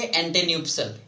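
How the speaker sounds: "एंटेन्यूप्सल" read out as ante-nyoop-sal; teacher modelling "एंटेन्यूप्सल"; pronunciation demo. Shown as a demonstration. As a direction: model "एंटेन्यूप्सल" with a nyoop middle and falling end. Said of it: "क्या इसको पढ़ेंगे?".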